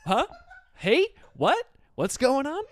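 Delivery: scramble, totally lost; confused outburst. Retold or imitated. Comic hearing the singer's news, suddenly confused and rising. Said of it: "And I said".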